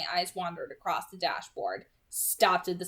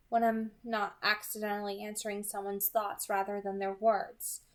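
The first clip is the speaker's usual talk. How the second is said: casual Edith. Acted. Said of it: "Her voice was casual".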